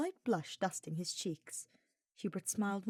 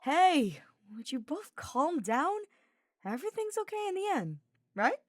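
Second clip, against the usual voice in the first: cheerful; 10 semitones higher, 6 dB louder than usual. A narrator's reading. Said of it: "Sylvain cut in cheerfully".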